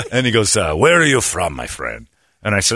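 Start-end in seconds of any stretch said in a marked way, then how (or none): 0.7-2.1 lilting question falling to a low finish; beautiful speaking voice. Retold or imitated. Attendant asking where the teller's from, beautifully spoken. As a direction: lightly imitate a courteous attendant. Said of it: "He's got a beautiful speaking voice".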